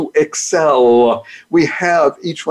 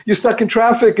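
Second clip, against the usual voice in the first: ordinary talk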